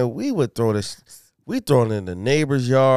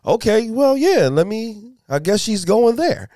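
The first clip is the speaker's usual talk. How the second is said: mock flustered rambling; 6 semitones higher, 3 dB louder than usual. Acting out reply to ex.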